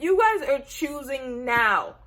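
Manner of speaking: mad viewer yelling at the show; angry complaint. Retold or imitated. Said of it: "I was so mad".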